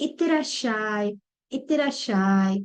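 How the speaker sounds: slow, drawn-out itterashai; slow demonstration. Shown as a demonstration. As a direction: say itterashai slowly for learners. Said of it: "I'll do it slowly once".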